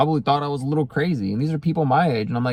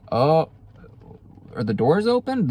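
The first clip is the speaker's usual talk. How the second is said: talking to the cat; 5 semitones higher than usual. Real, not acted.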